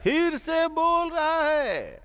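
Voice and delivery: high, long drawn-out rebuke; slow, rising comic indignation; outraged scolding. Acted. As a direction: stretch every word in hammed-up outrage. Invigilator scolds student for talking back.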